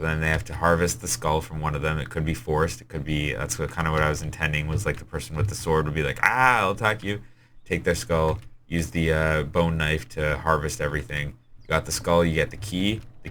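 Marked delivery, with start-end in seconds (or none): 6.2-7.2 higher-pitched play-acted lunge; quick mock battle cry, lightly voiced; mock attack cry. Player with the sword turns on a teammate, mock attack cry.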